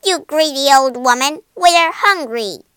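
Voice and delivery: loud, high scolding shout; angry shouting. A narrator's reading. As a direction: shout it as an indignant accusation. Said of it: "Kate shouted at her some more".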